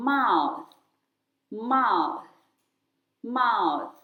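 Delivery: "mouth" ending with the tongue out for TH. Shown as a demonstration. Teacher modelling "mouth" for children, tongue-out TH. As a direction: say "mouth" clearly, tongue out on the final th. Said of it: "ลิ้นจะต้องออกมา".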